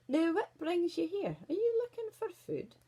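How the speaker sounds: high, loud wolf questioning; pry as an over-friendly wolf; inquisitive wolf. A narrator's reading. Wolf asks what brings the girl here, inquisitive.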